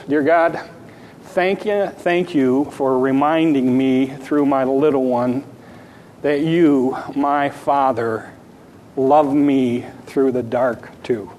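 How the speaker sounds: hushed, slow prayer of thanks; a grieving father quietly thanking God; soft prayer. Retold or imitated. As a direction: whisper thanks to God, slowing at the end. Father's tearful grateful prayer.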